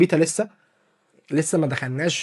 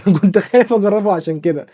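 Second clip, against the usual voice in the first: laughing through the line; rueful laugh while repeating it; same words, now giggling; 4 semitones higher, 6 dB louder than usual. Real, not acted.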